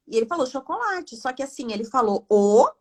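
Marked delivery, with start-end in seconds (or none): 2.3-2.7 lone vowel "o", pitched up and cut off; broken-off syllable. Retold or imitated. Therapist replays the child's chocolate, "o" as a broken-off syllable. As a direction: say just "o" and break off.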